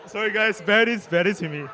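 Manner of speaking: pleading while choked up; crying, apologising. Real, not acted. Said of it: "I'm actually crying".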